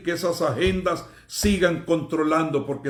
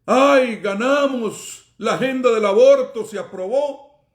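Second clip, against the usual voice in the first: higher-pitched imitation of crowing celebrators; half-shouted mock triumph, pitched up; mock cheering cry; 5 semitones higher, 4 dB louder than usual. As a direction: mimic others crying victory. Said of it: "cada vez que gritan y dicen".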